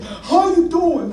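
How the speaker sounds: high, slow, drawn-out hello; imitated older man's hearty greeting; elderly hiker's greeting. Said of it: "this guy's like".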